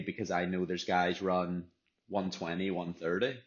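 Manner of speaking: talking between sips of smoothie; words around a sip through a straw; sipping a smoothie. Real, not acted. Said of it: "sorry, I was drinking some of my smoothie".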